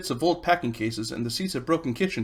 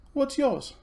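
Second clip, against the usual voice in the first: Polly; 12 semitones higher than usual. Acted. Polly's voice in read story.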